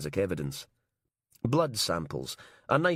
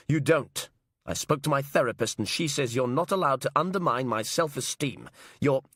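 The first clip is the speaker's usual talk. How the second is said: indignant outburst; 5 semitones higher than usual. Acted. Robertson indignant.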